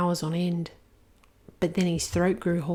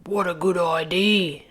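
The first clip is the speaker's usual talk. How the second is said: lightly voiced young dragon; a grateful dragon, lightly voiced; Zog. Zog answers.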